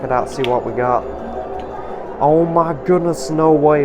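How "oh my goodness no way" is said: sudden excited disbelief; shrieking jackpot winner. Real, not acted. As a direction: gasp it out, can't believe the win. Mystery bag reveals big prize.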